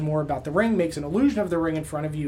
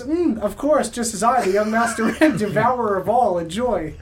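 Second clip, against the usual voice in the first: pompous boast; 5 semitones higher, 5 dB louder than usual. Retold or imitated. Recap voices Marcus's pompous line.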